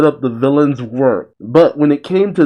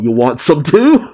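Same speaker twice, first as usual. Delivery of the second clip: raised, challenging quote with rising pitch; mock outcry; 4 semitones higher than usual. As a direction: cry out a playful challenge. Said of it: "they both cry out".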